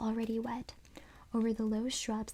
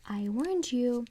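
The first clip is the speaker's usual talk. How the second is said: slow menacing snarl; dummy snarling at the girls, slow and menacing; 4 dB louder, slower than usual. Acted. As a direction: drag out the threat. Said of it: "the dummy snarled".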